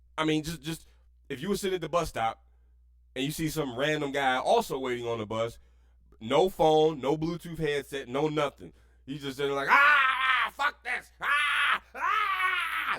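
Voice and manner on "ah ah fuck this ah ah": put-on very high wailing holler, stretched "ah" sounds. Imitating a random guy at a bus stop: imitating someone hollering. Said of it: "Why are you hollering and shouting for no reason?".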